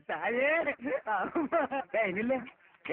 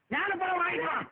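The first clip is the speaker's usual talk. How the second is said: usual speaking voice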